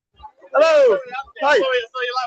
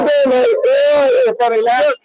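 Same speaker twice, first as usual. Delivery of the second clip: mock Scouse accent; 3 dB louder, slower than usual. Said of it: "I'm a terrible, terrible scouser".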